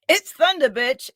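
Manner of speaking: high mock yell, dropping on the last word; Thunder Rosa's retort. Wrestler answering her rival's taunt before countering, mock yelling. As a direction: throw the taunt straight back. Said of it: "But Rosa's like".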